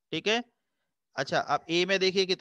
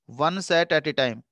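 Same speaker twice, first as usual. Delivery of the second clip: slow recap; 3 dB louder, much slower than usual. Shown as a demonstration. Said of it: "क्या मैंने बताया?".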